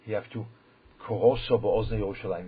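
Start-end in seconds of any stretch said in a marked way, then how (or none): 1.0-2.5 loud call. Shown as a demonstration. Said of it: "you have to scream into the ears".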